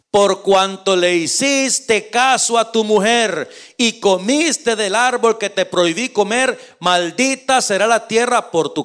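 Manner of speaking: slow, solemn pronouncement; lightly voiced God pronouncing sentence; God's judgment. God judging Adam, slow and solemn. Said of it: "Al hombre le dijo".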